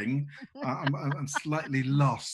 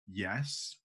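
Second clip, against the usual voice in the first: stony yes; 5 semitones lower, 7 dB quieter than usual. Acted. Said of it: "looks at him with this sort of stony face".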